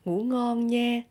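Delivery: Southern accent, "nha" held on a level tone; Southern Vietnamese accent. Shown as a demonstration. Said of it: "in Southern accent, you can say".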